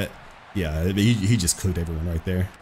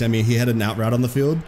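voice crack. Real, not acted. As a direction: voice cracking mid-rant. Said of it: "my voice just cracked".

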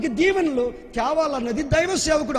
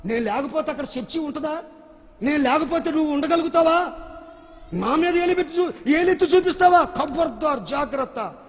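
mock angry king; 4 semitones higher than usual. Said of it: "వెంటనే ఆ రాజుగారు ఏమనాలి?".

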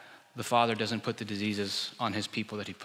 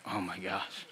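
exasperated parent; 5 semitones lower, 9 dB quieter, slower than usual. Retold or imitated. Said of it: "you're like".

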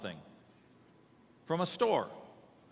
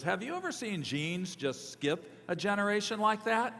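raised, higher voice imitating Dad; mildly mock-loud father calling out; father's very loud voice; 6 semitones higher than usual. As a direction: imitate a dad's pitched-up public remark. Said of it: "in a very loud voice".

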